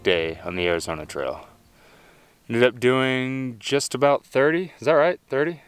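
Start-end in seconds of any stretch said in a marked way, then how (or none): none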